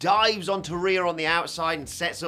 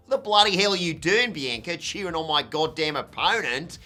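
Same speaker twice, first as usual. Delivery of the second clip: mock angry yell; 3 semitones higher, 4 dB louder than usual. Rhea yelling at Bianca, retold.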